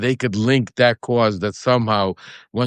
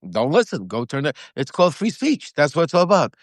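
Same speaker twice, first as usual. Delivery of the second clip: heated rant; 5 semitones higher than usual. Real, not acted. Heated rant on free speech.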